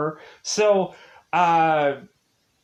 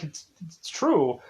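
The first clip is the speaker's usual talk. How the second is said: whisper; slower than usual. Real, not acted. Aside insisting it is honest.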